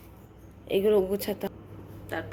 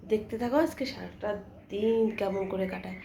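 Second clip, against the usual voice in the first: usual speaking voice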